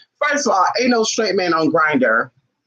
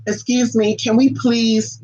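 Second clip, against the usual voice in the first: overly polite small voice, slow at the end; mock timid politeness; 3 semitones higher, slower than usual. Mocking a timid client asking permission, prissy and slow. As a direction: mimic a hesitant client, stretching the ask. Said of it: "Don't be like".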